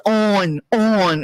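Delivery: "On" drawn out as "awn"; mock "On" with a rounded vowel; imitated pronunciation of "on". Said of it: "You say, 'Come on.'".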